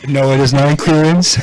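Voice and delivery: customer service voice. Pretend. Cashier role-play.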